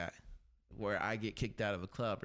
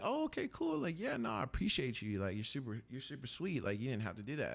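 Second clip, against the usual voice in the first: mock-polite thanks; 2 semitones higher than usual. Thanking the girl for the beer.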